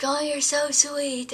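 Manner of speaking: high, loud, slow sweet thanks; touched thanks. Retold or imitated. Jesse thanking her for the necklace, high and slow. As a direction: draw out the thanks fondly.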